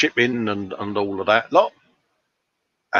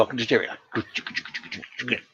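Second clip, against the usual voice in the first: bulldozer noise; 9 dB quieter, much slower than usual. Shown as a demonstration. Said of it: "that jugga jugga is my impression of a bulldozer".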